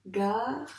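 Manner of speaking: "Garçon" as gar, pause, çon; two separate syllables. Shown as a demonstration. Teacher showing two syllables, "Garçon" split by a pause. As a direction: break "Garçon" clearly after gar. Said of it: "Deux syllabes".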